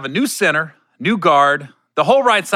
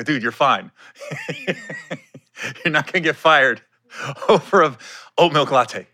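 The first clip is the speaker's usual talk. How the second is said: laughing reassurance. Retold or imitated.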